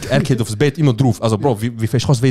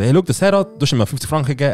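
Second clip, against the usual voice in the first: higher-pitched retold mother; pleading mother; 3 semitones higher, faster than usual. Mother to father about the fifty francs, mock pleading. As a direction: lightly act out a mum sticking up for her son.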